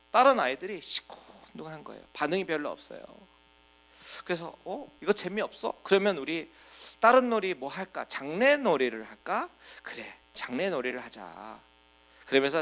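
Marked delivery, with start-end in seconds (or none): 4.6-11.6 lightly voiced kids. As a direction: lightly play a kid coaxing bored friends. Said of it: "이렇게 노는 겁니다".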